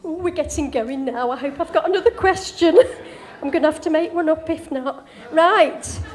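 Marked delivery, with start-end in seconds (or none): 1.3-6.0 laughing. Real, not acted. Laughing at running out of questions.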